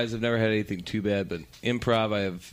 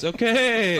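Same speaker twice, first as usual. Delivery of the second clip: much higher and louder, laughing okay; stunned host; 12 semitones higher, 5 dB louder than usual. Retold or imitated. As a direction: squeak it out, thrown off. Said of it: "he goes".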